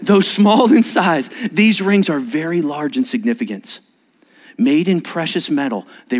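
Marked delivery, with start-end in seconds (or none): 0.0-3.8 ceremonial restart. Shown as a demonstration. Pastor restarting the ring reading properly. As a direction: start the reading over with weight. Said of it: "it is my third".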